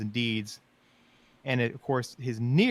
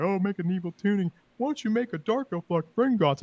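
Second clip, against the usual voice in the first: mocking fans; 7 semitones higher than usual. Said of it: "They're like".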